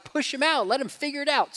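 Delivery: high, loud, carefree push-them-out call; mock pushy dad. Dad arguing with wife, hammed-up carefree call. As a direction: toss it off like a bold dad bird. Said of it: "I'm like".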